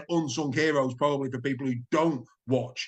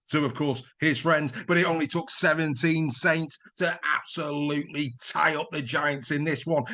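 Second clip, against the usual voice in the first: big rising sports-highlights commentary, a few shouts; excitable commentary; 2 semitones higher than usual. Acted. Presenter calling the highlights reel with hammed-up excitement. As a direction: sell every score like the match of the year.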